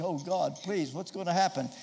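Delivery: a touch of hushed, anxious pleading; mild worried prayer under the breath; inward fear. Retold or imitated. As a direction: Moses secretly begging God, lightly frightened. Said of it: "inwardly he was saying".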